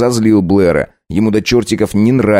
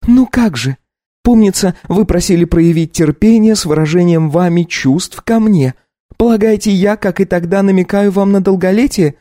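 put-on high young wife voice, taken aback; lifted, incredulous young woman; Katya, startled wife; 11 semitones higher than usual. Wife asks her husband to repeat himself.

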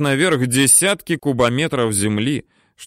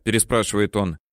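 ordinary delivery, nothing marked

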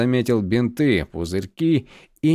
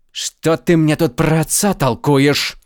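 loud, higher, slow indignant outburst; flaring up; 4 semitones higher, 4 dB louder, slower than usual. Acted. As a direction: flare up at the adviser. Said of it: "взвился он".

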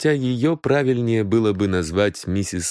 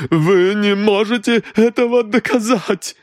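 even higher, frantic ЭТОГО; gasped defiance, rising; 13 semitones higher, 4 dB louder than usual. A narrator's reading. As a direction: repeat it more desperate. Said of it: "выдохнула дама". (повтор на грани истерики)

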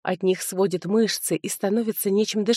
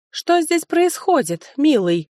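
a lightly voiced sly cousin, higher and slow; 9 semitones higher, 4 dB louder, slower than usual. Cousin sweetly interrupts the quarrel, lightly voiced and coy. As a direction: coo the question, a hint of a sly woman.

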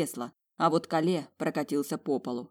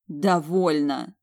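slow, louder moan; slow pained moan; 5 dB louder, much slower than usual. Acted. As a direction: drag it out in pain. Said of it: "простонала я".

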